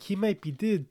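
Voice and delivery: dead said as did in a mock Kiwi accent; a light Kiwi take on did for dead; clipped Kiwi vowel turning dead into did. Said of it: "replace their E's with I's".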